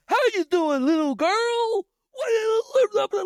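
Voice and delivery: high, loud, slow sing-song; creepy cashier. Retold or imitated. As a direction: coo creepily at a little girl.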